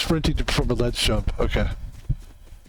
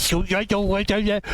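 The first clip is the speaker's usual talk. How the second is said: exaggerated Boston accent, pitched higher; mock Boston accent; 5 semitones higher than usual. Streamer mocking how people from Boston talk, mock Boston accent. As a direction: put on a hammed-up Boston accent. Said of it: "they talk like this".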